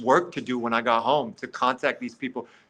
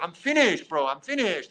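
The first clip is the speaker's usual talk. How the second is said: hands up pleading; 5 semitones higher than usual. Retold or imitated. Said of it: "Like this, with my hands in the air".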